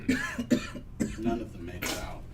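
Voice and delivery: slow, low, darker vine voice; ominous slow plant voice. Acted. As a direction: let the menace creep in. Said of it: "you can hear the tone in its voice change".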